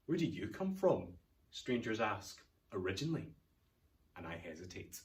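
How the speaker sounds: measured poem recital with pauses between phrases; poem reading. Acted. Reads the poem aloud.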